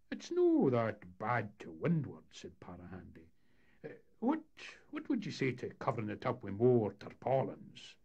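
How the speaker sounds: put-on canny old captain weighing it up; a lightly voiced Highland skipper; Para Handy voice. Captain character speaking.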